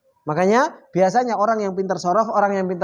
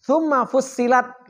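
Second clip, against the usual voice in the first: slow reading; 3 semitones higher, slower than usual. Shown as a demonstration. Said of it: "Jadi bacanya gimana?".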